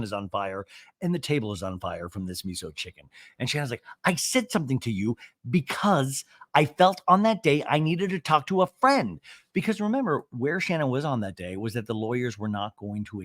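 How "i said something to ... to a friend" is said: mock-indignant, pitched-up pleading; imitated heated self-defence; emphatic protest. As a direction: act out an aggrieved friend justifying herself. Acting out Shannon's emotional plea.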